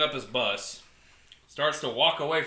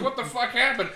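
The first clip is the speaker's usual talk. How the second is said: high-pitched imitated outburst; mock alarmed demand; 10 semitones higher than usual. Storyteller acting out a man walking out to an accident, mock alarm. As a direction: imitate someone baffled and alarmed.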